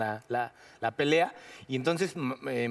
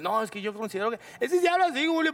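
lightly voiced Julio imitation; Julio-style voice; 8 semitones higher, faster than usual. The actor answering Julio in his style. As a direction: mimic his way of talking. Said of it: "como él".

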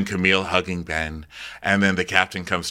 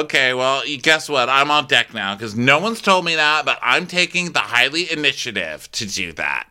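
higher, emphatic declaring; self-important announcement; 4 semitones higher than usual. Acted. Camille saying she's on deck now, self-important. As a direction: declare it like taking charge unasked. Acting Camille taking charge.

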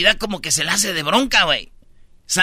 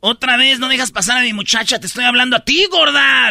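imitating the angry owner; 3 semitones higher than usual. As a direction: rant at the guard like the furious owner. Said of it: "le dijo a la de seguridad". (imitando a la dueña furiosa, gritando)

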